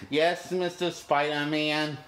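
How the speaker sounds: slow, lightly voiced robot-like kids; robotic kids. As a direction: drag it out like dutiful little robots. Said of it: "act like little robots saying".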